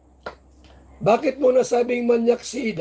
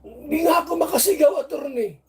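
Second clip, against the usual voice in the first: higher, hammed-up woman telling on him; mock complainant voice; 5 semitones higher than usual. Vlogger playing Beyonce telling the attorney, hammed-up higher voice. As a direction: play the coy accuser, pitched up.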